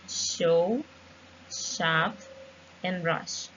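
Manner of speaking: "show", "shop", "rush" with a crisp sh; clear sh examples. Shown as a demonstration. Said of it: "we have some examples like".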